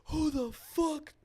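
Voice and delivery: high, slow mock yell breaking into laughter; retold scream. Imitating the drunk guy screaming at the couple, laughing mock yell. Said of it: "he literally screams".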